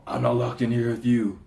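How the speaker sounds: first half of a dramatic quote, held back; mock movie quote. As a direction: deliver it as a contained, measured warning.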